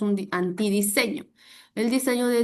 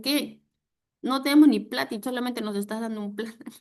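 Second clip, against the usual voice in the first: loud mock disbelief breaking into laughter; 3 semitones higher, 4 dB louder than usual. Relatives mock nephew over a banana, incredulous and teasing. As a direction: scoff at a useless gift, amused. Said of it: "Se empiezan a burlar y me dicen".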